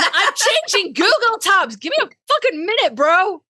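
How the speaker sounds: high, laughing exasperated protest. Real, not acted. The speaker laughing at cohost while switching tabs.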